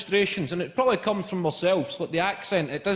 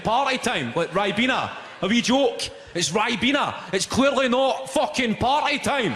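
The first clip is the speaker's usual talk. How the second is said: exasperated rant; 7 semitones higher than usual. Retold or imitated. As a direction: spell the joke out with growing fury. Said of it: "start feeling your blood boiling".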